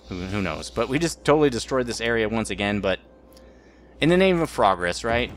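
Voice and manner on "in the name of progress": mock proud proclamation.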